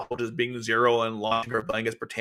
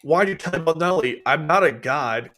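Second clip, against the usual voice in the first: mock outburst; 3 semitones higher, 4 dB louder than usual. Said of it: "He's like".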